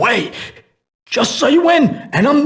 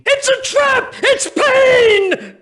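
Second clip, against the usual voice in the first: high, panicked warning; alarmed shout; 12 semitones higher, slower than usual. Acted. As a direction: yell the alarm. Thug spots Payne.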